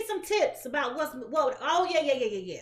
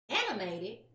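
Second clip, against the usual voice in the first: incredulous; 5 semitones lower, 4 dB quieter than usual. Retold or imitated. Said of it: "tell me that I'm too animated".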